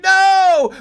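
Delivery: high, loud imitated yell of no; mock panicked shout. Wife's panicked shout at invaders. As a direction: squeal it like a startled wife. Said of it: "She's like".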